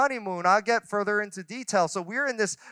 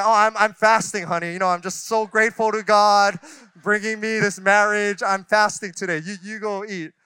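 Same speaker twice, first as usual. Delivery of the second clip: louder sarcastic fake piety; mock martyr sarcasm; 3 dB louder than usual. Husband mocking his own words to his wife at the resort, sarcastic. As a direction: pretend to be noble about skipping a pricey meal.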